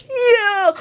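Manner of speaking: very high, tearful little squeak; choked-up, high-pitched swoon. Retold or imitated. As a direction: squeal it as if overcome. Swooning reaction to passionate line.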